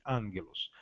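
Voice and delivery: angelos said slowly, first g as N; slow Greek pronunciation. Shown as a demonstration. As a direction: spell out angelos slowly for students. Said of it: "pronuncia-se". (angelos bem devagar, com som de N)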